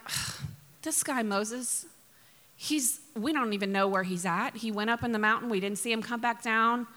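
mildly exasperated, slightly subdued complaint; acting out bored, impatient followers; bored grumbling. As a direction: open with a weary sigh, then grumble. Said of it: "they get bored".

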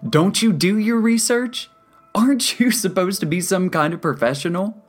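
high, loud indignant tirade; incredulous, heated protest; outraged rant. A narrator's reading. Angry patient argues with counselor.

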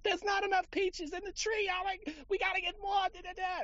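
very high Jewish mother voice; kvetching Jewish mother. Retold or imitated. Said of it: "this, like, Jewish mother voice came out of me".

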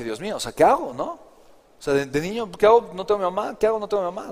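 put-on a scared boy asking what to do; child's panic.

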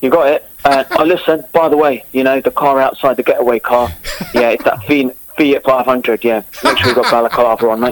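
Cockney getaway-gang geezer; matey Cockney, plotting a job; Cockney accent. Shown as a demonstration. Guest carries on his Cockney demo about a getaway car, Cockney accent. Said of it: "Let's start with Cockney".

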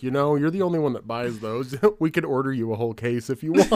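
imitating the clerk. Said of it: "He's like".

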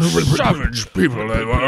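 lightly voiced British adventurer; a colonial explorer in a British accent recalling savages; British accent, clubroom raconteur; mock British explorer. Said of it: "Lord Chauncey Hesperdale".

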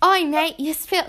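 badly faked British accent; botched British accent. Shown as a demonstration. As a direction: try a British accent and miss. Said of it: "No, that's not British".

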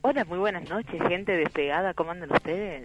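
soft sultry phone greeting; sensual voice. Real, not acted. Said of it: "Mirá esta voz sensual". (voz sensual y suave)

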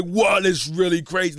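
loud, drawn-out amazement; Will Smith impression. Imitating the star on a live stream, drawn-out impression. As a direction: stretch it out in a lightly hammed-up star voice. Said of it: "Will Smith talking to Will Smith".

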